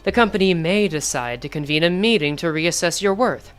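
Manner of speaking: low, measured corporate voice; calm, cold and businesslike; cold company man. Acted. Reads the company man's lines.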